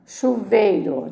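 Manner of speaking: "Chuveiro" slowly as chu-vei-ro; "Chuveiro" in three slow beats; three syllables. Shown as a demonstration. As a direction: say "Chuveiro" drawn out, vei kept whole. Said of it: "Três sílabas".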